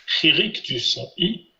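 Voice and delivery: «Chirik du son I» lentement, syllabes étirées; modèle à répéter. Shown as a demonstration. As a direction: donner «Chirik du son I» à répéter, sans se presser. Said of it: "je vous laisse répéter le son". («Chirik du son I» dit lentement, en modèle pour l'élève)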